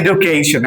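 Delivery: এডুকেশন with a hard d, "e-du-ke-shon"; common pronunciation. Shown as a demonstration. Teacher shows how we usually say it, common pronunciation. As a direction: say এডুকেশন the everyday Bangla way, d not j. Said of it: "আমরা যেটাকে কি উচ্চারণ করি".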